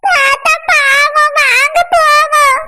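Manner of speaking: very slow, mock tearful plea; sobbing. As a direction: drag the words through tears. Child sobs about grandpa. (மெதுவாக அழுதபடி பேசுதல்)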